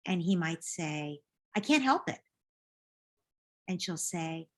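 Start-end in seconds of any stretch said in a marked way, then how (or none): 1.5-2.2 put-on high, pleading kid voice; lightly whined excuse; whiny son. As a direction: plead like a caught little boy. Son whining defense.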